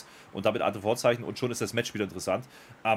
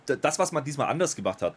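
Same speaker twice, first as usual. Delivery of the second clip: ordinary talk, nothing marked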